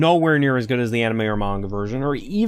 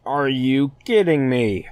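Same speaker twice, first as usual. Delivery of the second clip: drawn-out, incredulous are you kidding me, stress on kidding; slow disbelief; slower than usual. Real, not acted. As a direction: let "kidding" sink in slowly, in disbelief. Exasperated at the ship finale.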